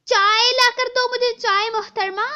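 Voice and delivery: loud, slow commanding order; bossy demand. Acted. Stepmother orders Naina to bring tea, loud and slow.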